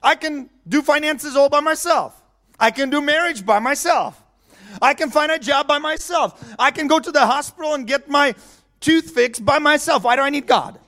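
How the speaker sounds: a hint of proud scoffing; mocking skeptic voice. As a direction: toss it off like someone who thinks they need nobody. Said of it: "That's what a lot of people say".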